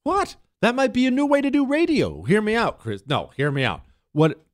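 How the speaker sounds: high, hoarse, strained whisper; fading voice, pushed through a rasp; raspy whisper. Real, not acted. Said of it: "a very loud whisper".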